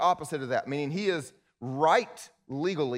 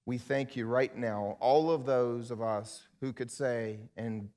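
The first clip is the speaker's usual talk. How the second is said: closing prayer. Acted.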